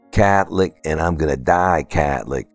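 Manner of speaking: put-on quoting locals in a light New Orleans accent. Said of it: "excuse the New Orleans accent".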